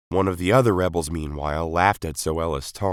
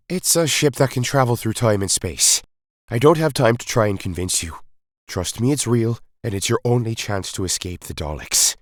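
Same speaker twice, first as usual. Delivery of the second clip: grave, urgent explanation, a touch higher; lightly voiced Doctor laying out the threat; 6 semitones higher, 5 dB louder than usual. A narrator's reading. The Doctor explains the Daleks' cruelty to the rebels, grave. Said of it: "the Doctor explained".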